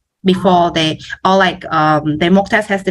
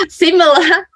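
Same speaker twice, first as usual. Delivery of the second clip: laughing; 11 semitones higher than usual. Real, not acted. Joking correction about Pearson.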